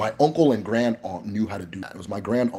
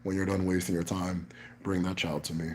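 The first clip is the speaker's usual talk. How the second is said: granduncle's voice; 3 semitones lower, 8 dB quieter than usual. Retold or imitated. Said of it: "he's like".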